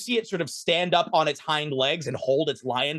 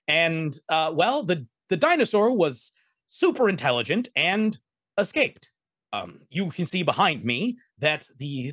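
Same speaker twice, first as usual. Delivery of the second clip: chittering meerkat voice. Acted. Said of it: "you hear this little voice chitter out".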